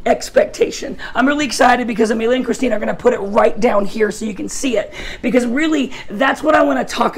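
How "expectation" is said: slow, deliberate hope is a confident expectation; dictating slowly. Shown as a demonstration. Preacher dictating the definition for note-takers, slow. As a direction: say it slowly so they can write it. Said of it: "just write down".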